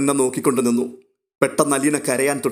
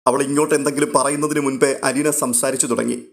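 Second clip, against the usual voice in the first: usual speaking voice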